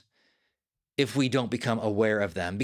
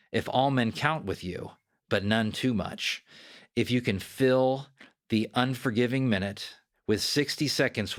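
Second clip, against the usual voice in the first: poem recitation; 2 semitones lower than usual. Acted. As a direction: let each line land, unhurried and earnest. Reads Kipling poem aloud.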